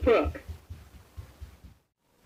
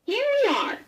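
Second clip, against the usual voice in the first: puppy announcing; 14 semitones higher, much faster than usual. A narrator's reading. Puppy arrives at farm.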